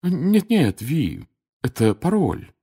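placating, starting high and easing down; calm an offended friend; gently correcting a friend; soothing. A narrator's reading. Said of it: "успокоила её полная дама".

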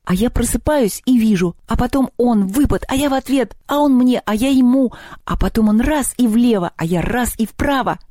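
high, breakneck blow-by-blow retelling; excited chatter. A narrator's reading. Girl reliving her duel at breakfast, excited chatter. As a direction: pour it out high, barely stopping. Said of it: "не закрыла рот ни на секунду".

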